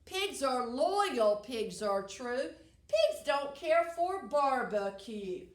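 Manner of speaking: singsong poem recital; poem reading. Real, not acted. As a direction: read a rhyming poem to a class with a clear bouncy beat. Reads a poem to children.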